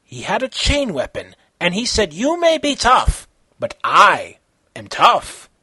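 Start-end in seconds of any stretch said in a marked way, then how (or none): 2.1-5.5 loud, slowed boss boast; villain boss taunt. Acted. Boss taunting Kenshiro, loud villain boast. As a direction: sneer it like a thug boss.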